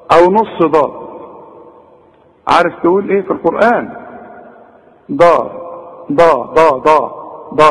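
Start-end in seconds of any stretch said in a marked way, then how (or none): 6.1-7.7 ضا repeated with a heavy, emphatic sound; the mistaken ضا drilled; wrong dad. Shown as a demonstration. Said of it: "غلط".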